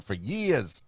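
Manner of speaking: drawn-out "years" in a slight Northern accent; touch of a Northern accent on "years". Shown as a demonstration. Radio host boasting of his regular gig, slight Northern accent. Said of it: "Is that like a northern accent?".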